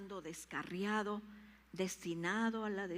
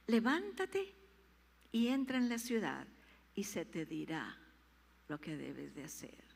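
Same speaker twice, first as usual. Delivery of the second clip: stronger command; 3 semitones lower than usual. Acted. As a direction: rouse him firmly. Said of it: "el Señor le dijo". (el Señor ordena con fuerza)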